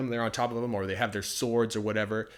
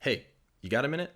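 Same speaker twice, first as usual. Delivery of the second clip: casual native phrasing; 4 semitones higher, faster than usual. Shown as a demonstration. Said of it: "他会像这样说".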